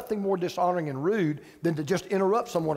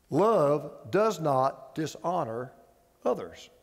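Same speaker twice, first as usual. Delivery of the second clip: solemn reading; 7 semitones lower, slower than usual. Acted. Pastor reads scripture slowly.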